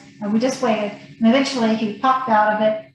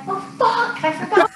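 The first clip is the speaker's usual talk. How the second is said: sudden realization; 10 semitones higher than usual. Retold or imitated. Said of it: "I'm like".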